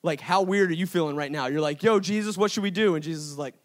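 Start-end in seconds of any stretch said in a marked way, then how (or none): 1.8-3.0 acted-out bewildered crowd, higher and louder; baffled questioning. Crowd asks Jesus for direction, baffled. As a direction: call out a puzzled question, pitched up.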